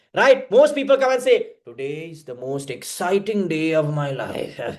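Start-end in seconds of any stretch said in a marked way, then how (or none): 1.7-4.6 low, slow, joyless, funereal, gloomy monotone. Speaker mimics people announcing exciting news, in a mock-gloomy delivery. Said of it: "It looks like they're going to die".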